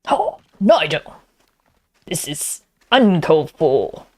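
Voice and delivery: hammed-up exasperated friend; impression of friend. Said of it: "It's my impersonation of B F F".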